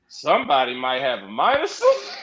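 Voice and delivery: half-laugh the prediction; laughing aside. Retold or imitated. Fan recalling a laughing prediction about a wrestler's fate, chuckling. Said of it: "I said".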